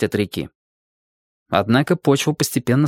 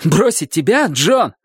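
high, indignant echo; animated storybook exclamation; exclaimed question; 5 semitones higher, slower than usual. A narrator's reading. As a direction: throw the question back in disbelief. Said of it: "воскликнул он".

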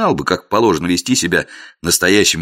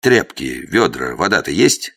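gloomy; 4 semitones lower than usual. Acted. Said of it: "хмуро уточнил я".

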